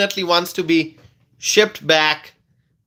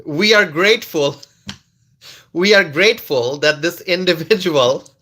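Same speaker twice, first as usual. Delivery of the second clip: mock statement broken by giggles; laughing mock official read; reading through laughter. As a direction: read it while struggling not to laugh. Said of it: "these are words coming from ice".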